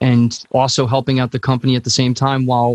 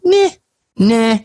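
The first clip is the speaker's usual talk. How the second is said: dismissive nah; 9 semitones higher, 4 dB louder than usual. Retold or imitated. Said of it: "He's like".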